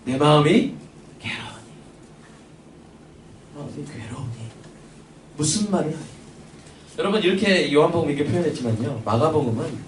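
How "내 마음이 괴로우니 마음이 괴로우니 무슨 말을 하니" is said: anguished. Retold or imitated. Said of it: "지금 뭐 하고 계세요".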